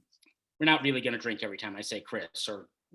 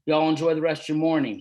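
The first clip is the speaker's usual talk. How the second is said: put-on southern accent; 8 dB louder, faster than usual. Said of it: "southern accent".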